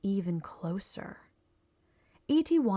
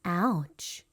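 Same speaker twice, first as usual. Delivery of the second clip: E T voice. A narrator's reading. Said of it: "E T said".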